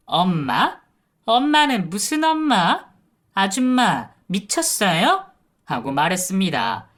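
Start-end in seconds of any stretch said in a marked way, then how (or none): 0.1-5.3 loud, higher mocking disbelief; scornful sneer. Niece-in-law mocking the caregiver, scornful sneer. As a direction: scoff at her like she's mad. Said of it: "가짠타는 듯이 웃더니".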